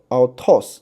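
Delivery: "altos" drawn out slowly, final syllable stressed; stress on last syllable. Shown as a demonstration. Teacher giving students an accent example, final-syllable stress on "altos". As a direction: land the weight on the end of "altos". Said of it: "这个是最后一个".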